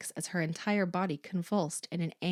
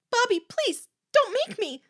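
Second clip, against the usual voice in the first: high, loud, desperate plea; panicked, pleading cry; frightened begging; 9 dB louder than usual. A narrator's reading. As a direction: beg to be spared. Corky begs not to look.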